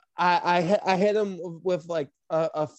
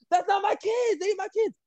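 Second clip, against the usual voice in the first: very high-pitched imitation of protest; mock indignant denial; 14 semitones higher than usual. Jazz disowning his supposed kids, high mock protest. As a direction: deny it in a squeaky-high mock voice.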